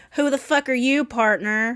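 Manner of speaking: put-on Southern girl voice with Southern accent. Trying out a southern girl voice, unsure how to do it: southern girl voice. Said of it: "my Southern girl voice".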